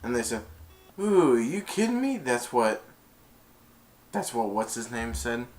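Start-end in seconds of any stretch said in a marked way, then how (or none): 1.0-2.2 high, swooping disbelief; mock amazement. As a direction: imitate someone amazed, pitch leaping up. Retold amazed reaction to kick.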